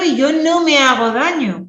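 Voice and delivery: loud, slow and carried with no strain; projected loud voice. Shown as a demonstration. Therapist proves to the class that loud needn't hurt. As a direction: keep the volume up while staying relaxed. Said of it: "como estáis viendo".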